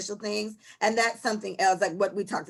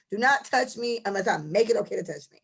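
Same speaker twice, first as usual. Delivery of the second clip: ordinary delivery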